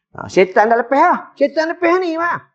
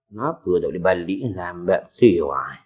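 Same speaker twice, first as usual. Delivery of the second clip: grumbling host's inner voice; 4 semitones lower than usual. Retold or imitated. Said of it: "hati dia cakap".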